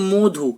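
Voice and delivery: মধু as "mo-dhu", drawn out slowly; মধু with ও in the first syllable; O-like vowel. Shown as a demonstration. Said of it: "আমরা বলি তো".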